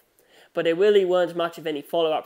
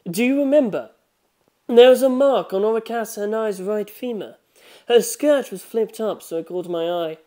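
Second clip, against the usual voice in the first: higher, louder insistent questioning; Rohan probing; 5 semitones higher, 6 dB louder than usual. Acted. Rohan questioning the boy about the death, insistent. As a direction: press him for an answer.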